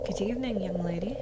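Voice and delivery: put-on British-accented demon greeting; lightly put-on British accent. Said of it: "I'm giving a British accent".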